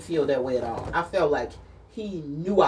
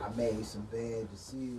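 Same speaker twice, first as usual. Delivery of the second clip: mock meek confession; 4 semitones lower, 9 dB quieter than usual. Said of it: "playing the ex apologizing".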